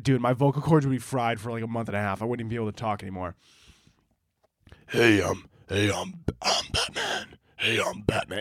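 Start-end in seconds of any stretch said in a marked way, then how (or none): 4.9-8.4 yelled whisper, strained and choked; hoarse superhero growl, badly done; Batman. Shown as a demonstration. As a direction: try to yell from a whisper. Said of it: "It's like a whisper, but he's yelling".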